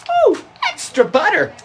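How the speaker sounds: very high, squeaky mock delight; streamer parody. Parodying the popcorn streamer girl, high squeaky delight. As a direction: coo it in falsetto. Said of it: "And then like".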